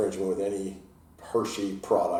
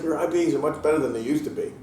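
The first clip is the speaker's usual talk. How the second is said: son's teasing verdict; 8 semitones higher, 5 dB louder than usual. Retold or imitated. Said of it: "He's like".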